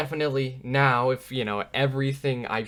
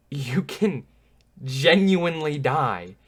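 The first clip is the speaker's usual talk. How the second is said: laughing; 4 semitones higher, 6 dB louder, slower than usual. Real, not acted. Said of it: "I know I'm laughing".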